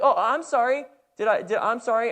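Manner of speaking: high, light apologetic voice; timid apology. Retold or imitated. Daughter apologizing on the field, high and timid. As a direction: sound like a shy girl saying sorry. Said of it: "she's like".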